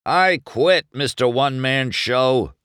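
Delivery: high, loud, indignant quitting; spat. A narrator's reading. Fed-up crewman quits on the racer, spitting it out. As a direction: spit it out at the boss. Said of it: "the pity spat".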